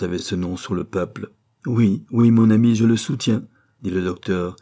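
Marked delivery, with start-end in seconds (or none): 1.7-3.5 louder, firm insistence; a doctor stoutly defending his friend; insistent. Acted. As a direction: press the point with conviction.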